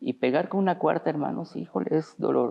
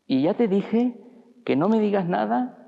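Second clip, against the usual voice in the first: much higher and louder, yelling it now; angry yell; 8 semitones higher, 4 dB louder than usual. Acted. Son at the stairs yells again at his father, furious. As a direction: push the defiance into a full yell at the silent father.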